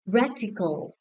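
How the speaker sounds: "Radical" with the opening syllable stressed; stress on first syllable. Shown as a demonstration. Teacher checking stress answers with class, first-syllable stress on "Radical". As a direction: lean on the "Rad" of "Radical". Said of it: "The first syllable".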